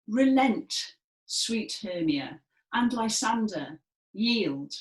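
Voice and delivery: loud, stern command; commanding Demetrius. Shown as a demonstration. Teacher voicing Demetrius to the class, commanding. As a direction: order them to give up. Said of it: "And he says".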